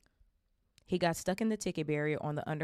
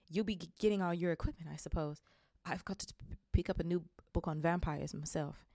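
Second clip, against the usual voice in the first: stammering. Acted. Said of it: "stammered Professor Quirrell".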